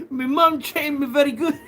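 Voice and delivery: high, loud mock British "Me mum", laughing; mock British accent. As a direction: ham up a Cockney lad, giggling. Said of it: "You guys say mum".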